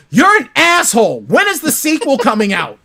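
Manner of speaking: high, loud playful scolding; excited mock scold. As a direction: tease him like an eager fan. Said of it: "she goes".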